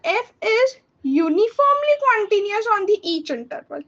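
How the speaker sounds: slow, careful read-out of a textbook definition; reading a definition aloud. Acted. Teacher reading the definition slowly to her students. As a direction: dictate it slowly, word by word, for notes.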